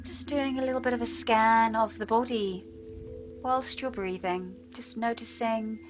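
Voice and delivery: unhurried meditation voice with long pauses; guided meditation. Real, not acted. Yoga teacher settles students into breath awareness, guided meditation. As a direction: guide them gently into steady breathing, letting words linger. Leads breathing and body scan.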